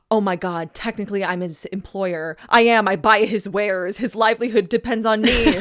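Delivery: playing Sookie spiraling into panic; quoting Sookie. Host quoting Sookie's panic, building mock alarm. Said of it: "she goes".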